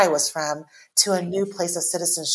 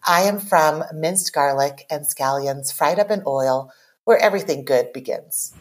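poem reading. Acted. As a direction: read it like a confession, line by line. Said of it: "go ahead and read it".

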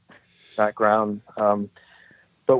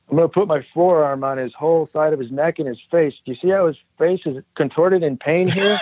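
put-on weak, half-hearted Brazilian accent; lightly imitating a Brazilian instructor; Horace Gracie accent; 6 semitones higher than usual. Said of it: "in his accent, I can't do it".

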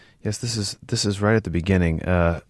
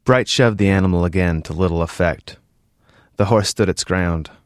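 measured reading from a novel; story narration. A narrator's reading. Author reading his novel to an interviewer, measured story narration. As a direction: read the story aloud evenly.

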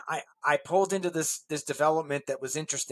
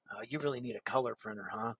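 nice guy; 7 semitones lower, 11 dB quieter than usual. Retold or imitated. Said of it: "And he was so nice".

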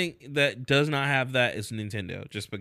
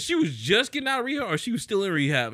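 usual speaking voice

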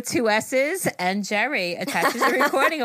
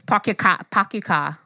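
Boston accent; 3 semitones lower than usual. Shown as a demonstration. Hosts test Boston r-less car phrase.

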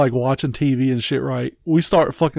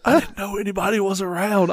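lightly voiced wife, higher pitch; embarrassed wife imitation; 4 semitones higher, 3 dB quieter than usual. Husband imitates wife caught out in store, mock defensive.

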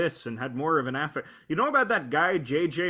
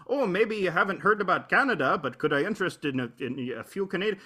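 mock Canadian accent; 2 semitones higher than usual. Mocking a YouTuber who plays up being Canadian, hammed-up Canadian accent. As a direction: play up the Canadian accent for Americans. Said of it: "And he actually talks like that".

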